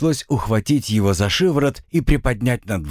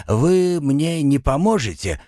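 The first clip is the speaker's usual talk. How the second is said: slow, high, crestfallen plea; 8 semitones higher than usual. A narrator's reading. Avangur asks the men above for help, crestfallen. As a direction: plead with mild dejection, drawing it out. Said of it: "упавшим голосом спросил Авангур".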